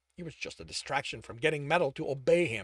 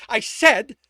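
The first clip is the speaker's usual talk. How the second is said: loud, higher, forced through clenched teeth; 8 semitones higher, 15 dB louder than usual. A narrator's reading. Tibbs fighting the metal, through clenched teeth. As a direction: grit it out, barely holding back. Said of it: "Tibbs replied to clenched teeth".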